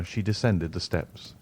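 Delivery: ordinary delivery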